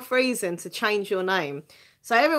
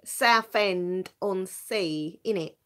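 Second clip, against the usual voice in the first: slow, lightly hammed Essex accent; a hint of put-on Essex; drawled Essex innit, lightly done; much slower than usual. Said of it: "I'm from a place called Essex".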